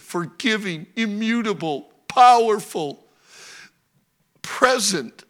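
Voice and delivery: fervent pastor's prayer, rising and falling. Acted. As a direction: pray aloud to the Lord before the church. Leads a prayer.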